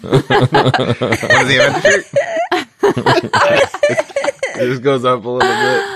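squeaky sped-up voice, laughing; chipmunk voice. Pretend. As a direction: pitch it way up like sped-up tape. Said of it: "voice goes up an octave".

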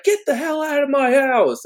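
high, shrieking old lady impression; crazy old lady voice. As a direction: play the unhinged old woman, hammed up. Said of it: "she's like".

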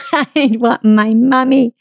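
mock whine of a little kid, drawn out with a laugh; whining child. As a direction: slowly plead like a child, half laughing. Acting out her scared little-child self.

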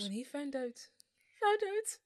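cracking up mid attempt; giggling through failed Irish accent; laughing. Real, not acted. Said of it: "Why can't I do it".

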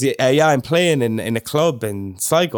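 lightly imitated Swedish accent; a hint of a Swedish accent. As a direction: mimic a Swede speaking English. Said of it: "a, an accent".

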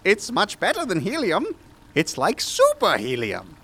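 grandiose eccentric scientist; mad scientist voice. Acted. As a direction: play the pompous mad doctor. S0 voices Doctor West.

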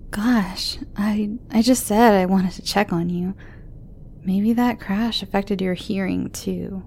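put-on worried young girl voice; teen girl voice.

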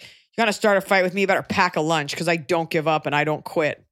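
imitated Canadian accent; Canadian guy. Host quoting the Canadian she dated, imitated Canadian accent. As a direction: lightly mimic a Canadian guy talking tough. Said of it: "the guy I dated was one time talking".

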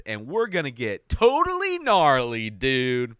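high, hyped surfer dude voice; extreme hyped kids ad. Acted. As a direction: pump it up like a kids ad. Hyped Pauly-style surfer dude intro.

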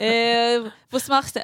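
lightly put-on foreign accent, coming out Yiddish; joking foreign voice; mock Russian attempt. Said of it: "that's Yiddish every time".

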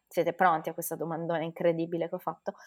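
fast, whispered teasing buildup; hype whisper. Acted. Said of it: "non è che devi mettere l'hype così".

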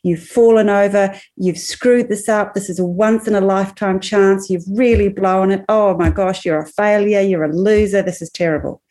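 mildly acted self-berating; a touch of harsh self-talk, understated; critical inner voice. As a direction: lightly voice a self-destructive inner critic, piling on the blame. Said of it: "really negative, critical, self-destructive inner voice".

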